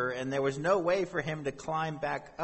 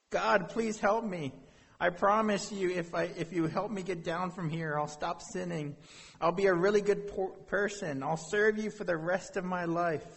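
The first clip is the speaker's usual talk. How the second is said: high, urgent begging; acted frantic bargaining for rescue; desperate pleading; 5 semitones higher than usual. Desperate man bargains with God.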